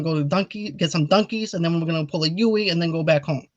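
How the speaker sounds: "Donkey" and "Yui" mangled in a hammed-up Italian accent; lightly played fake Italian accent that garbles the words; mock Italian accent. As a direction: bluster it like a cartoon mobster. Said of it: "what I just said was".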